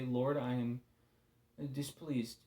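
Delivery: a hint of a stiff courtly petitioner; lightly put-on archaic politeness, unhurried; mock-royal address to God, understated; overly formal prayer. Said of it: "in a perfect world, I'd say".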